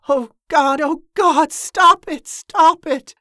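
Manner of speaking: high, loud terrified cries, rising; panicked screaming. A narrator's reading. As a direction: scream it out in blind panic, spinning in the barrel. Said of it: "Someone was screaming".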